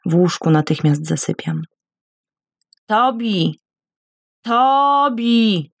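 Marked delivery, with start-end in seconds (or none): 2.9-5.7 a high, despairing cry of his name; desperate call. A narrator's reading. Woman calls her husband from bed in despair. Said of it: "Jestem zrozpaczona".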